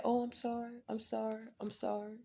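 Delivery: a hint of the judge's flustered sorry; judge apologizing. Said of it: "she said".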